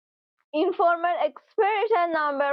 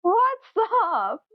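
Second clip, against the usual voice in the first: casual greeting; 7 semitones higher than usual. Shown as a demonstration. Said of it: "instead of".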